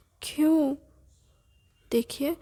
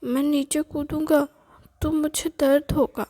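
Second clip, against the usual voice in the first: put-on scared child; 5 dB louder than usual. Boy begs his grandmother to lift him down, scared.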